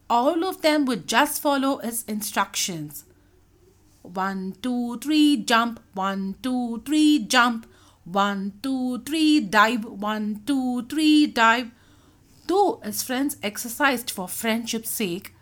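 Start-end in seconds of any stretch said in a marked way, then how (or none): 4.0-11.7 rhythmic count rising to each command; exercise count. A narrator's reading. Dolphin leading friends through exercises, rhythmic counting. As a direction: count them into the move like a coach. Doobie leads exercise with instructions.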